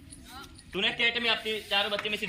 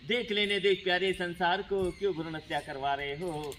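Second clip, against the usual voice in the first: put-on pleading unborn girl. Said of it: "और कहती है".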